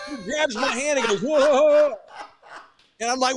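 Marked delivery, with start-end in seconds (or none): 1.2-1.9 high, loud imitated whoop; hammed-up joking exclamation; mock whoa. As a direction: whoop like a clowning dad. Imitates dad grabbing his hand.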